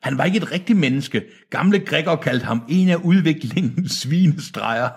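high, urgent elder voice; frightened old man. Acted. Old man describing the mutant to Deacon, high urgent voice.

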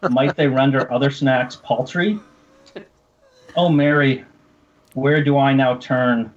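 grand, measured poetry reading; mock solemn poem. Host keeps reading his poem to cohosts, mock-solemn.

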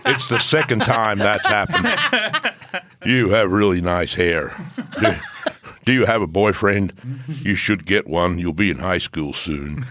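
doddery elderly politician impression; Joe Biden. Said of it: "Joe Biden".

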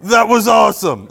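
loud mock Italian accent; hammed-up Italian accent. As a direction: repeat it as an Italian airman impression. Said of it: "that was a good impression".

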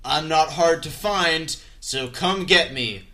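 slow, dragged-out tough-guy growl with a long drawn final line; The Rock's menacing dare, lightly mocked; imitating The Rock. Imitating The Rock as he taunts the villain by phone, slow and drawn out. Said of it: "Said exactly like that".

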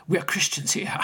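whispered, confiding We're Christians here. Retold or imitated. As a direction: whisper it as a shared secret. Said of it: "then he lowered his voice".

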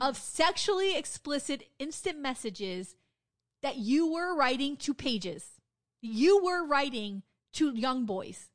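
slow, weighty emphasis, retold accusation; outraged confrontation. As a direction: lay out the accusation phrase by phrase, slowly. Retelling a staffer's outraged confrontation.

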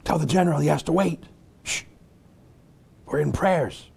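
lightly voiced officer shooing the general away; mock commander. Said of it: "some commander was on the phone".

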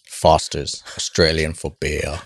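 low, slow Australian ad voice; Australian accent. Acted. Host quotes the Foster's slogan, mock Australian accent. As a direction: parody an Aussie beer slogan, low and drawn out. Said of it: "tried to do an Australian accent".

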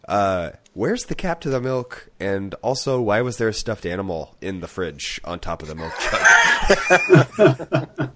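rising mock yell, laughing at the end; mom's question. Retelling his mom asking about the milk, rising to a laughing mock yell. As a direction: play the puzzled mom, building to a laughing yell. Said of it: "my mom was like".

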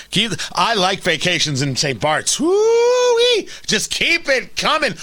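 mocking Nicole Wallace crowing over the money; mock gleeful squeal. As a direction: ham up a gloating cheer. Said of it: "She's like".

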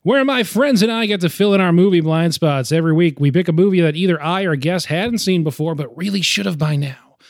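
upbeat host intro; announcer voice. Shown as a demonstration. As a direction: read it like a radio host. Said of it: "maybe something like".

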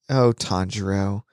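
low, understated mock swoon; Zenitsu cooing. Retelling Zenitsu pining for his friend, low mock swoon.

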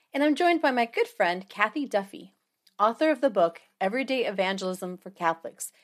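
muffled computer-mic sound; like talking from under water; underwater. Real, not acted. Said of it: "so I sound a wee bit underwater".

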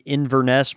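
"Inverness" with a clear "NESS"; British pronunciation. Shown as a demonstration. Listing Southern towns, "Inverness" with a full "ness" ending. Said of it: "we don't say 'em like that".

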